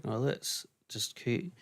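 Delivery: talking with mouth closed, lips still; ventriloquist voice. Shown as a demonstration. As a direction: talk without moving your mouth. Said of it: "I'm trying to talk without moving my mouth".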